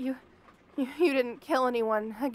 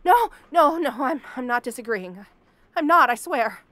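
frightened pleading; 8 dB louder than usual. Acted. Panicked denial to captor.

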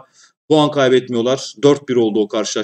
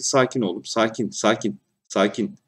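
calming; 4 semitones lower, 6 dB quieter than usual. Real, not acted. Calming own player, soft.

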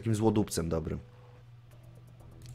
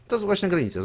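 lightly cheerful, lifted in pitch; cheerful question; 9 semitones higher, 5 dB louder than usual. A narrator's reading. Necromancer needles Mardor who hates his good mood, mildly cheerful. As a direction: ask it with a touch of good cheer. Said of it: "zapytałem wesoło".

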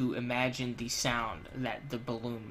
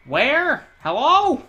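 high loud calls of where; calling out; 11 semitones higher, 9 dB louder, much slower than usual. Real, not acted. Player hunts for the siren, calling out loud. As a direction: call out searching the room.

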